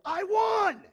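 loud, high triumphant yell; mock victory shout. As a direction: crow it like a kid who beat you. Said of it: "so that you could get over and go".

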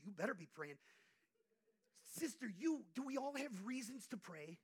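loud, high fervent preaching; a preacher urging the congregation to pray; preaching at full force. Acted. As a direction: press the church to pray.

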